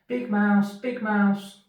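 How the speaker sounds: high, small mouse voice calling out; a tiny mouse calling to his big friend; Little Mouse. Acted. Little Mouse calls anxiously to Big Mouse: high squeaky call.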